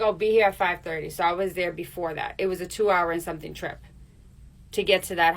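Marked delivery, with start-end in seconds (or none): 0.0-1.1 attitude. Retold or imitated. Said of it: "a little kind of little attitude".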